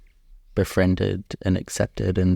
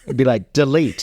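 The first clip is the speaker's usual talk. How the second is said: laughing; 5 semitones higher, 4 dB louder than usual. Real, not acted. Host jokes about button.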